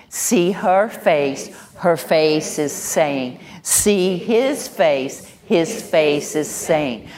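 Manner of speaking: slow, even "her" and "his" stressed for the class to repeat; slow, deliberate modeling for students to echo; slow call and response. Shown as a demonstration. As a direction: lead the class slowly, leaning on "her" and "his". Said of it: "Say that with me".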